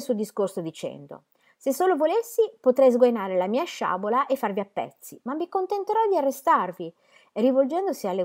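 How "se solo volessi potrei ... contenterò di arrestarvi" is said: higher, louder swaggering threat; a half-drunk soldier bullying, much higher; drunken threat. A narrator's reading. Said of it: "sacramentando e sciorinando tutto il campionario di bestemmie". (minaccia spavalda da soldato ubriaco, più acuta)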